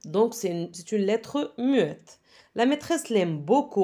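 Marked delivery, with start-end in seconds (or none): 3.4-3.8 "beaucoup" ending on the vowel; silent P. Shown as a demonstration. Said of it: "On dit beaucoup".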